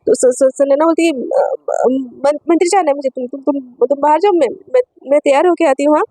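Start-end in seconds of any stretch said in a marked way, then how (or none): 1.1-6.0 flustered stammer. Acted. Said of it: "और ज़्यादा घबराने बोलने लगती है".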